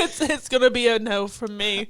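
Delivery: put-on a barely there British accent, Simon Cowell style; a hint of a Simon Cowell British rejection; bad British accent. Turns down her co-host's fake proposal in a weak British accent. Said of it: "the worst British accent I've ever done".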